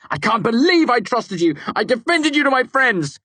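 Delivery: high, loud angry outburst. A narrator's reading. Narrator accusing Devi of betrayal, angry. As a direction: let the betrayal burn. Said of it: "I spat back angrily".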